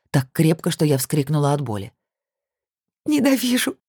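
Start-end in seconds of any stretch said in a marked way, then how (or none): 3.0-3.8 high, choked tearful cry; forced through tears. Acted. Heroine chokes the word out through tears. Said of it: "выдавила сквозь слёзы".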